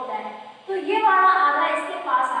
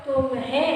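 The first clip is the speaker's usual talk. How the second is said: तुम्हें said evenly, no pressure on any syllable; no stress. Shown as a demonstration. Teacher showing no pressure falls, तुम्हें said unstressed. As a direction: let तुम्हें out without a push. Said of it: "कोई दबाव, pressure नहीं हुआ".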